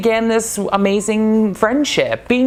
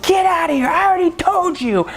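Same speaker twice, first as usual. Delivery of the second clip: higher, mock yell at a hustler; mock scolding; 11 semitones higher than usual. Eve chasing off a hustling customer, mock angry scolding. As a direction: play the tiny shopkeeper throwing someone out. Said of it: "be screaming".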